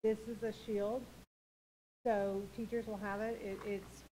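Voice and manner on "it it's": usual speaking voice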